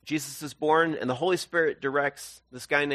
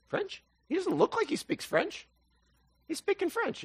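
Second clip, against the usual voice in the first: very high falsetto bystander voice; puzzled bystander; 3 dB quieter than usual. Acted. Someone in the crowd hearing another language, puzzled falsetto. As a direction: play it baffled, high and squeaky.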